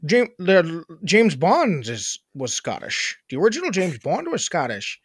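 attempted Scottish accent drifting into Irish; badly faked Scottish-Irish accent; Scottish turning Irish. Shown as a demonstration. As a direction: start mock Scottish, slide toward an Irish lilt. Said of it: "it kinda got a little Irish".

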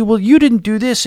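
bad Irish accent. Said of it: "I can't do an Irish accent".

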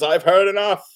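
exasperated outburst. Acted. Doctor interrupting the endless talking, exasperated outburst. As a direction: cut them off, fed up.

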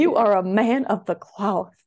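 loud, formal bestowing of a title; grand proclamation. Pretend. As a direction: declare it like crowning someone.

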